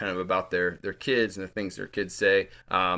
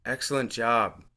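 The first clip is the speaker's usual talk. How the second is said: mildly soothing "Excellent job", ending on b; soothing instructor; 3 semitones higher than usual. Acted. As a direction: say "Excellent job" as gentle class praise. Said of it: "with her soothing voice says".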